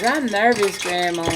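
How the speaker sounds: lightly imitating a nervous grandchild; grandbaby's nervous line. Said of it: "my grandbaby says".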